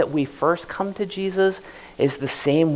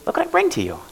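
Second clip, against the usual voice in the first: pitched way up, smug and self-satisfied; smug bragging; faster than usual. Retold or imitated. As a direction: sneer it like you're doing God a favour.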